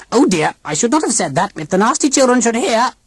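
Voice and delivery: crisp, precise robot aunt; sharp and clear. A narrator's reading. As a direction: bite each word off cleanly. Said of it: "said very sharply and clearly".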